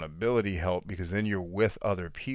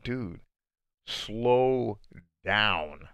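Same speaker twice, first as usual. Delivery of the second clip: quoted coach; much slower than usual. Retold or imitated. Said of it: "she was like".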